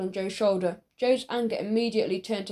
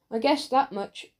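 mouth full; 3 semitones higher than usual. Acted. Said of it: "slurred Raj".

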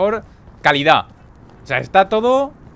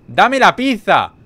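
slow, louder shout with every word leaned on; demanding shout; 4 semitones higher, 6 dB louder, slower than usual. Pretend. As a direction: bark the order out slowly. Demanding the pizza from the NPC.

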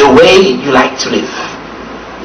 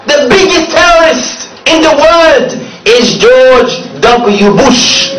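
crowd-rousing shout; 4 semitones higher, much slower than usual. Real, not acted. Rising denunciation to crowd.

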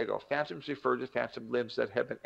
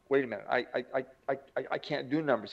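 mock-panicked stammering on "I"; flustered stammer; faster than usual. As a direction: protest haltingly, tripping over the first word. Acts stammering panic at dean's news.

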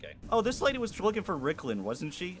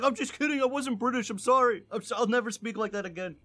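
mock apology; 4 semitones higher than usual. Player mocking a beaten game boss who dropped his British accent, mock apology. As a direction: plead in a mock sorry voice, pitched up. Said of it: "he loses his British accent".

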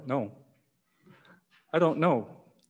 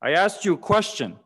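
higher, a touch louder mock bellow; 3 semitones higher, 3 dB louder than usual. Exasperated pastor to the silent boy, higher mock bellow. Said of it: "and bellowed".

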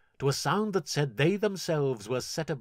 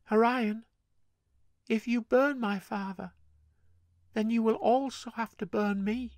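put-on higher girl's voice, eerily calm and even; a lightly voiced girl, eerily calm; ghostly calm; 11 semitones higher than usual. Gale telling her brother she will burn too, lightly voiced ghostly calm. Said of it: "In a voice ghostly calm".

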